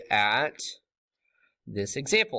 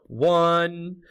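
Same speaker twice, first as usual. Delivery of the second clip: drawn-out, higher, held sing-song note; 5 semitones higher, 3 dB louder than usual. Real, not acted. Teacher answering their own question, sing-song. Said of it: "singing in a sing-song voice".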